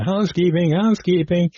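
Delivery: high, singled-out call at the door; housekeeper calling. Retold or imitated. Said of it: "housekeeping's beating on the door going".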